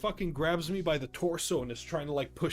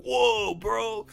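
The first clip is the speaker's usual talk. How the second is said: mock-amazed higher-pitched whoa; amazed friends; 6 semitones higher than usual. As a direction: imitate friends reacting in awe. Acting out friends' amazed reaction.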